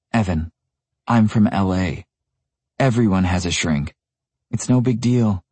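lightly voiced casual woman; young woman voice. Michaela explains casually.

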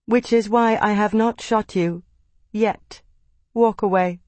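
calm but firm warning; strained patience. A narrator's reading. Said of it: "Kitai said in a patient tone".

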